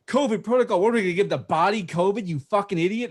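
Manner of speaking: half-hearted retold shouting at the funeral worker; retold scream. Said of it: "we're, like, screaming at this woman".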